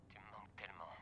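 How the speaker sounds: whispering. Acted. Grieving father on the phone.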